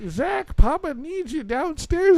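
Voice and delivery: high, loud, drawn-out call; grandmother calling. Retold or imitated. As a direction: imitate grandma summoning her grandson. Voices grandmother calling him.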